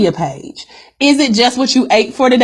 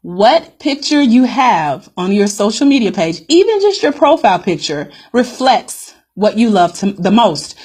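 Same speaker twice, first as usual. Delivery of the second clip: a little slower, with pauses between phrases; slowly. Real, not acted. Coach repeats a key point to her live viewers, slowly. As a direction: restate it slowly and deliberately for emphasis. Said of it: "Let me say that again slowly".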